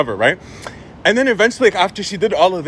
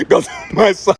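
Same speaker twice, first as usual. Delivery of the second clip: laughing gloat; 3 semitones higher, slower than usual. Retold or imitated. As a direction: gloat again through a laugh, drawn out. Repeats gloat while cracking up.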